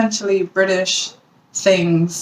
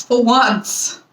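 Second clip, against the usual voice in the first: second "for once" pitched higher, landing with a fall; emphatic repeat; 5 semitones higher than usual. Shown as a demonstration. Relieved the pole is not phallic, higher emphatic repeat. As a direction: say "for once" again, higher and pointed.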